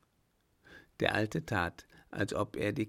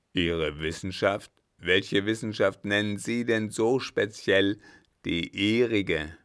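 louder, scornful question, slowing at the end; scoffing captain; 6 dB louder than usual. Acted. Captain scornfully questions the German's science. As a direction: sneer at his claim.

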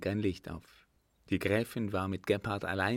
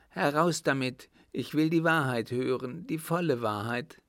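louder, higher insistent countess; acted stern aunt, pressing hard; angry demand; 6 semitones higher, 4 dB louder than usual. A narrator's reading. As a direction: demand the truth impatiently. Furious aunt demands the truth.

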